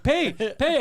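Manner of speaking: high mock shout demanding money; mock yell. Friend demanding payment from clinic staff, a hammed-up yell. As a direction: yell it like a pushy customer. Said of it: "he's screaming at them".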